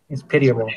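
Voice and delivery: PITIABLE said plainly with falling tune; pronunciation model. Shown as a demonstration. Helper answers how to pronounce it, modelling the word. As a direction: show how "pitiable" is said, ending down. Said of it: "how do you pronounce that".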